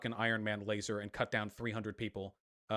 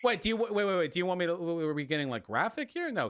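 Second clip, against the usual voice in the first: higher and louder, exasperated; loud flustered protest; 8 semitones higher, 6 dB louder than usual. Real, not acted. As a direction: raise your voice in disbelief. Flustered protest in heated debate.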